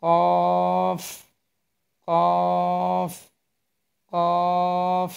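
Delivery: কফ said clearly and repeated; teacher modelling কফ; letter demo. Shown as a demonstration. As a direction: model কফ for learners. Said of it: "তারপরে হরফটি".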